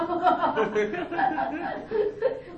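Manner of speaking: a long laugh falling away; hearty laugh. Real, not acted. Laughing as she recalls locking the kids in the kitchen. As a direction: burst out laughing at her own trick.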